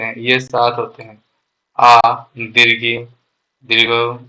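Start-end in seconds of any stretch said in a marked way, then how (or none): 1.8-3.0 आ and दीर्घी drawn out slowly, each vowel held long; long vowel demo. Shown as a demonstration. Teacher to class showing long vowels, slow held vowels. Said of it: "दीर्घ स्वरों के उच्चारण में मूल स्वरों से दोगुना का समय लगता है".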